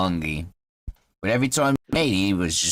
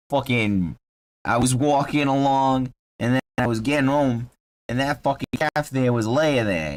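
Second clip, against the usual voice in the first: Boston halfling. Acted. Halfling describes finding his cat dead, Boston accent. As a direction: tell it in a Boston accent, dragging the last words. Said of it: "Yeah, he's from Boston".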